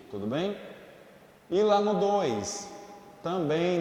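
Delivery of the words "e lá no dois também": emphatic. Shown as a demonstration. Teacher flags the next point.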